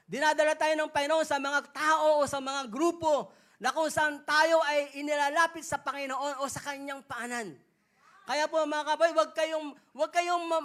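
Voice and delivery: loud preaching to the congregation; preaching at full force. Acted. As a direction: drive the exhortation home to the crowd. Preacher exhorts congregation, louder.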